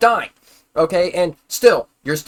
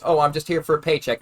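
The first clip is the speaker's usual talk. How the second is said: mocking. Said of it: "these days is".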